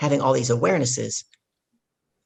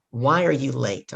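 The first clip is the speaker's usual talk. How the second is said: slow deliberate question; slower than usual. Shown as a demonstration. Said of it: "I want you to think about this".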